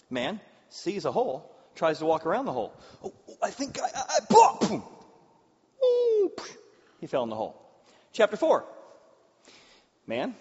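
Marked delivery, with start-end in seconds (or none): 3.0-4.8 high, laughing stumble into a hole; mock panicked man. Preacher acts the man falling in the hole, high laughing. 5.8-6.3 mock ooh. Reacting to the fall.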